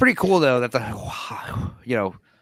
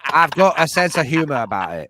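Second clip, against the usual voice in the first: put-on American accent; 5 dB louder than usual. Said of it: "your one American accent part".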